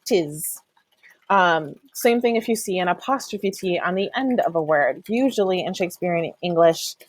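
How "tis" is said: 'Tis said as one clipped syllable, T brushed. Shown as a demonstration. Teacher demoing 'Tis as one short syllable. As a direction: run the T straight into is: 'Tis. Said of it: "brush the T and then go straight for the".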